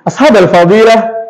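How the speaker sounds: "ashabal fadilah" with a lifted, rolling melody; Indonesian intonation. Shown as a demonstration. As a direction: say "ashabal fadilah" in Indonesian-style rhetorical tune. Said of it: "Kalau orang Indonesia bilangnya seperti ini".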